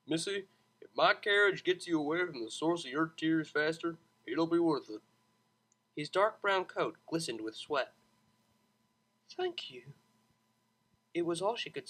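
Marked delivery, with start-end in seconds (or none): 0.1-5.0 lightly voiced easygoing driver; a hint of a smooth cabbie; charming driver. 9.3-9.9 breathless whisper of gratitude; barely able to say it, moved; tearful whispered thank you. Acted.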